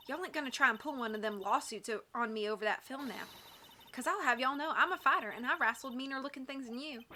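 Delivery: feisty put-on Southern twang; Southern accent. Camera owner fearing a lawsuit, feisty Southern accent. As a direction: square up for a fight in a Southern accent. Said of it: "maybe I should give her a Southern voice".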